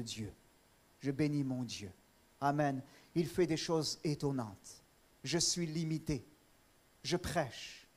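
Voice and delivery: low, soft, reverent preaching; humble thanksgiving. Real, not acted. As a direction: bring it down to quiet, heartfelt gratitude. Preacher turns to humble thanks to God.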